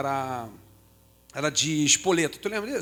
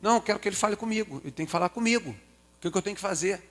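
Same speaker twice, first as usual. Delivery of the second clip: put-on insistent child; 3 semitones higher, 3 dB quieter, faster than usual. Child insisting to mother, retold.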